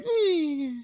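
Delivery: high, soft unimpressed eh; meh shrug. Retold or imitated. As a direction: shrug with one syllable. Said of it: "it's kinda like".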